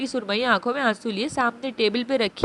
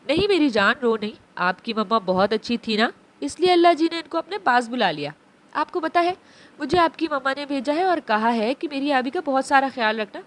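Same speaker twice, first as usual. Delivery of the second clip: tearful. Acted. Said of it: "नम लहजे में बोली".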